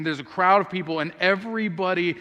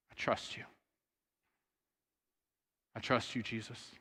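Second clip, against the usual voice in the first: barely voiced, much softer; whispered trust; 6 semitones lower, 14 dB quieter than usual. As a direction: breathe it out as a private vow. Quiet climax of Martha's prayer.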